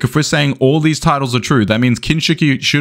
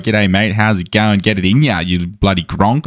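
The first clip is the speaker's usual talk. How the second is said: mock broad Australian greeting; thick Australian accent, for illustration; Australian slang accent; 3 semitones lower than usual. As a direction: imitate an Aussie local's slangy patter. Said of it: "come to Australia and everyone was like".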